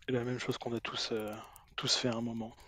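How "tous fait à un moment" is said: whispered aside. Acted. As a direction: drop to a whisper. Whispered end of line.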